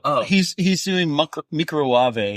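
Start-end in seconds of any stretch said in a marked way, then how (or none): 1.1-2.4 microwave said as a fancy foreign word, mee-cro-wah-vay; mock-fancy microwave, all vowels opened out; fancy mispronunciation. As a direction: imitate someone making microwave sound fancy. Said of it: "he makes everything sound fancy".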